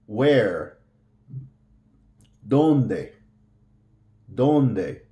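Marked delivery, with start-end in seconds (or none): 2.5-5.0 ¿Dónde? with the first syllable DÓN stressed and falling; Dónde said with the weight on the front syllable DÓN. Shown as a demonstration. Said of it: "Hear the stress?".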